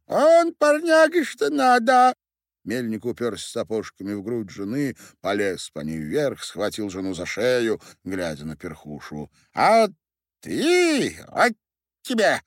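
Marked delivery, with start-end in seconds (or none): 0.1-2.2 very high, loud, squeaky tiny-man voice; shrill-pitched drunk dwarf miller. A narrator's reading. 9.5-12.4 very high, loud, squeaky tiny-man voice; shrill-pitched drunk dwarf miller. A narrator's reading. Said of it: "Мельник показал Перхуше кукиш".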